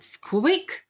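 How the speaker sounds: high squeaky mouse cry; mouse squeak. A narrator's reading. Narrator's mouse giving a high squeak. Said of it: "And the mouse said".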